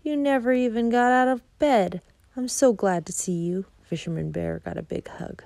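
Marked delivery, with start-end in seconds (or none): 0.0-3.7 happy little cub. Acted. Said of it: "cried Little Bear happily".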